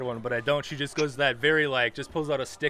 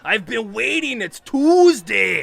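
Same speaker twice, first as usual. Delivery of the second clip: put-on high, loud, doting old dwarven hostess; high loud fawning welcome from the bartender; gushing dwarf barkeep; 6 semitones higher, 8 dB louder than usual. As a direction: greet regulars like long-lost family, loudly. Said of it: "and says".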